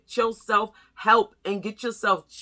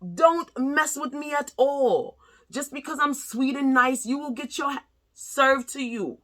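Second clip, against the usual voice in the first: Aries moon talking; 4 semitones higher than usual. Retold or imitated. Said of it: "my Aries moon be like".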